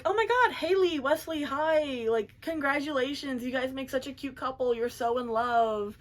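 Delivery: high-pitched mock gushing, starting high and settling down; gushing greeting. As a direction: imitate an overexcited congratulation, drawing out the greeting. Gushing teacher greets couple in retelling.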